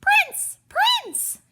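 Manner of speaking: high shouted calling for the prince; loud high call, searching. Acted. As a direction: call out for her lost frog. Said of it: "Lenore said".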